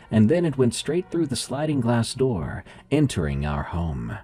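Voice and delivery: steady, grave storytelling voice; story narration. A narrator's reading. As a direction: read it like a creepy tale.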